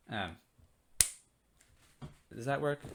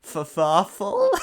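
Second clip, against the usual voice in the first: cracking up mid-read; laughing at his own line, higher and louder; giggling disbelief at the text; real laughter breaking through; 4 semitones higher, 7 dB louder, much slower than usual. Real, not acted.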